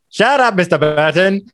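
cutting old sorcerer, lightly voiced; Lo Pan impression. Podcaster doing Lo Pan's line for co-host, lightly shrill. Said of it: "before I do these impressions".

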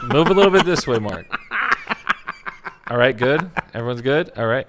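loud director call to the actor; calling out on set. Shown as a demonstration. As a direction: project it across the set.

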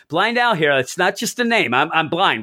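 put-on high, chatty old lady quote; lightly hammed-up Blind Al; mock Blind Al. Retelling the comic, mock Blind Al explaining. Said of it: "Blind Al's like".

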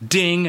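high, quick bell noise; imitated ding. Lie detector approves the denial, high imitated ding. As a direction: chime it like a machine. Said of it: "they have a sound that goes".

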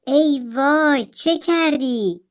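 slow, drawn-out cry of dismay; horrified wail. Acted. Mother sees her daughter's ruined face, slow horrified wail. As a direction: gasp it out slowly in horror.

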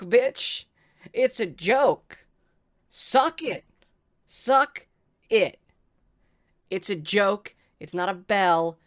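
loud, high mocking yells with laughter; boastful, rude gloating. Real, not acted. Player taunts the defeated pseudo-dragon, loud and high. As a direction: rub the win in their face, shouting. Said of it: "in a very boastful and rude manner".

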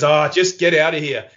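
a hint of a weary judge waving him off; dismissive judge. Judge dismisses the degenerate from court, weary and dismissive. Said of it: "the judge just goes".

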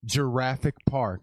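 "Giraffic" said slowly with a J, like Jurassic; soft G. Shown as a demonstration. Mocking the soft G, slow "Giraffic Park". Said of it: "it wouldn't be a giraffic".

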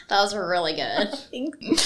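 slow, laughing through the words; chuckling praise. Real, not acted. Laughs at friend's accent.

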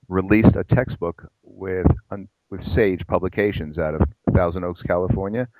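infomercial voice. Real, not acted. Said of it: "Boy, I sound like an infomercial".

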